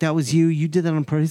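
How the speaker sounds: mock half-joking, playfully aggressive, pushy tone. Retelling a moment of confronting a friend: imitating a playful aggressive accusation. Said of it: "I am kinda getting a little aggressive with him".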